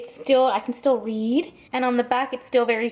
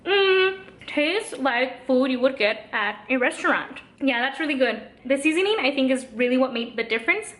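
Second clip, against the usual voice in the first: chewing noisily while talking; mouth full. Real, not acted. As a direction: talk through a mouthful. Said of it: "I'm talking with my mouth full".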